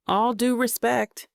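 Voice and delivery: slow, deadpan opening; mild deadpan, slowed; flat. Acted. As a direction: say it flat and unimpressed. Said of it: "he starts flatly".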